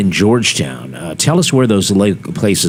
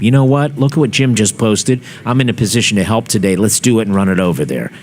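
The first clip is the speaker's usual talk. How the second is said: eager follower; 3 semitones higher than usual. Retold or imitated. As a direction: sound like a helper itching to act. Host voices an eager page follower.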